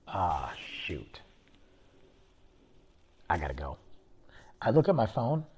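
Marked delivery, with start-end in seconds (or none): 0.1-3.8 low, hushed hungover groan of words; groggy dismay. Retold or imitated. Hungover tourist waking late, low and groggy. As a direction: sluggish morning realization.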